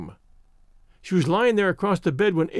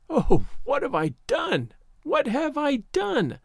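high, drawn-out moan of dismay; anguished moan; 8 semitones higher, slower than usual. A narrator's reading. Janet moaning to herself over her terrible mistake, anguished. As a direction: moan it slowly, pitched up in distress. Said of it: "moaned poor Janet".

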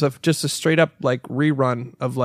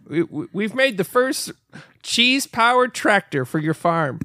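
higher, halting pitchman voice; mock tractor ad; 4 semitones higher than usual. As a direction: pitch it like a local commercial. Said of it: "I would get all these ads".

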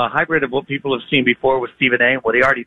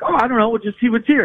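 light, higher, carefree wife voice; breezy wife; 9 semitones higher than usual. Retold or imitated. Wife in the grocery aisle brushing off her husband, carefree and higher. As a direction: breeze through it like a wife who's browsing.

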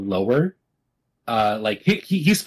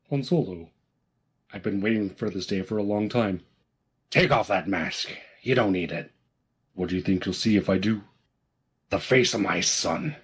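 Kylo Ren voice; 3 semitones lower, 4 dB quieter than usual. Acted. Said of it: "I'll do the preceding scene".

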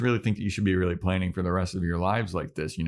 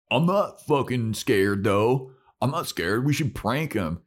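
higher, emphatic mock bravado; defiant teen bravado; 4 semitones higher, slower than usual. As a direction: play a kid insisting they are unafraid. Teen bravado in acted quote.

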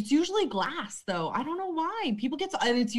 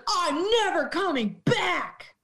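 slow, higher, whimpering vow; mock sulky whine; 6 semitones higher, slower than usual. Bartender imitating a regular sulking into the ambulance. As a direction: drag it out like a sulking drunk.

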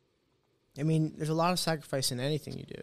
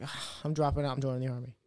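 retold dejection; 3 semitones lower, 6 dB quieter than usual. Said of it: "I was down in the dumps".

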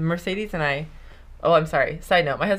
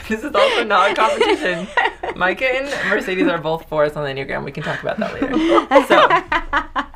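laughing; 3 semitones higher, 4 dB louder than usual. Real, not acted. Laughing through the banter.

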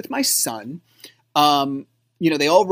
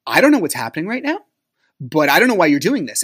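fast, rising exasperated protest; escalating frustration; 4 dB louder, faster than usual. Retold or imitated. Arguing back at the ex at the carnival, fast escalating frustration. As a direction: retell yourself getting worked up, quick and louder. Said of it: "I'm getting escalated".

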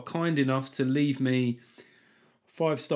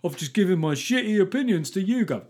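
lightly hammed-up satisfied customer, higher pitch; mock boast of a survey member; mock testimonial; 5 semitones higher, 4 dB louder than usual. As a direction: imitate a gushing online testimonial. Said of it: "they'll have examples of people".

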